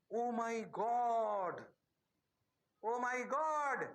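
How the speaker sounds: drawn-out, slow mock gasp of wonder; mock amazement. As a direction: stretch each word out in fake awe. Teacher mock-gasps at the answer.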